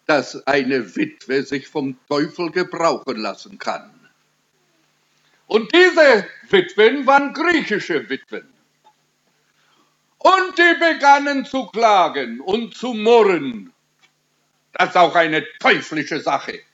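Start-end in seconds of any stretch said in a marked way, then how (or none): 5.5-13.7 high-pitched sermon delivery; emphatic preaching. Real, not acted. Preacher tells of Greek widows who began to murmur, emphatic preaching. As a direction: preach it in a raised, insistent pitch.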